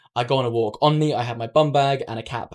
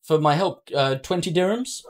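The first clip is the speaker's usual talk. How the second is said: lightly put-on French accent, hesitant request; imitated French-accented English; 4 semitones higher than usual. Wallet finder asks for a reward, lightly imitated French accent. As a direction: ask haltingly in a slight French accent. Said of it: "in broken English, in this French English".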